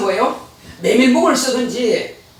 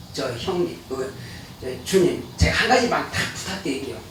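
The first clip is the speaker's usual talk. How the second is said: much softer and lower, a shy timid plea; timid request; 8 semitones lower, 10 dB quieter than usual. Retold or imitated. Brother timidly asking Jesus for one favour, soft and humble. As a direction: ask humbly, almost under the breath. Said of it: "한 사람이 그래요".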